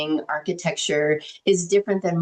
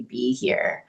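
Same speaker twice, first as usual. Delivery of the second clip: whisper; 6 semitones lower than usual. Real, not acted. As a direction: breathe the words out. Softly stressing presence.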